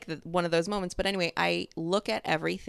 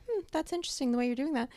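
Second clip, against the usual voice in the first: higher, fast prim boss voice; imitating her boss; 8 semitones higher, faster than usual. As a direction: play the boss politely judging. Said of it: "she's talking like this".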